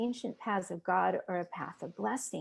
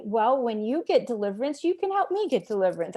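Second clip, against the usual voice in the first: retold arrogant thought, pitched up and pointed; 2 semitones higher, 5 dB louder than usual. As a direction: look down your nose at the helper. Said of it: "I thought arrogantly".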